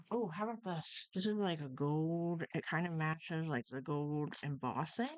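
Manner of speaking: talking around a paintbrush in mouth. Real, not acted. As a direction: speak with a paintbrush held in the mouth. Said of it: "I'm talking funny 'cause I have a paintbrush in my mouth".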